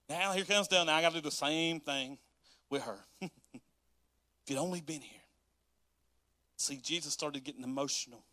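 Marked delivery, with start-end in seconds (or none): 3.5-5.2 mournful plea. Acted. Mary's plea, slow and different.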